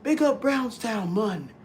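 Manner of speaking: high, drawn-out mock Jamaican shout-out; big it up in a hammed-up Jamaican accent; Jamaican hype. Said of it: "they be bigging up these".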